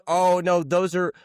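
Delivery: sheepish self. Retold or imitated. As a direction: explain yourself meekly up high. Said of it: "I was like".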